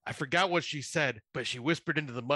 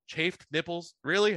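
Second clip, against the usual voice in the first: incredulous; 5 semitones higher than usual. Retold or imitated. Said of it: "they looked at me and go".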